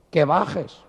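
comic talking cow giving orders; insistent cow. Acted. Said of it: "la vaca se paró".

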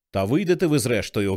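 ordinary delivery

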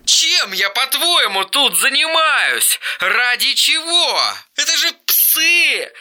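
an enraged brother hurling insults; angry taunting. Acted. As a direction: taunt him hard. Eric keeps abusing his brother.

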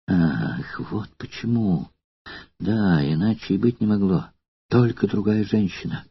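softly, as if talking to herself; quiet musing under the breath. Acted. Courtesan alone with her thoughts, quietly realising the truth. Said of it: "будто говоря сама с собой".

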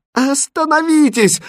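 high, slow, desperate cry; desperate shout. Acted. Princess stopping the king's blade, desperate shout. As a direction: scream at him to stop. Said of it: "отчаянно крикнула королевна".

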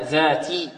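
"ذاتي" with a pure i at the end; clear kasra. Shown as a demonstration. Teacher correcting the slip, careful vowel demo. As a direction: finish "ذاتي" on a clean "tee". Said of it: "نحافظ على كسر التاء".

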